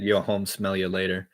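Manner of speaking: slow, paused rap line; paused delivery. Shown as a demonstration. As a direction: take a breath before it. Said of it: "what if I kinda paused".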